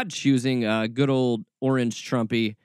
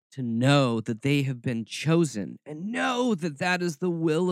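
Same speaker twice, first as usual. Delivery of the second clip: mock a Southern prophecy, stretching the words; mocking Southern accent. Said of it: "my Southern roots come out".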